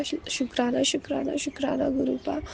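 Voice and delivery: hushed devotional thanks; soft fading thanks. Real, not acted. Repeated thanks, fading softer.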